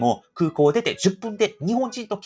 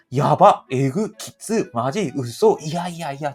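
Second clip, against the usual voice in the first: slangy reactions; 3 semitones lower, 4 dB louder, slower than usual. Shown as a demonstration. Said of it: "こういうイントネーションあるじゃないですか".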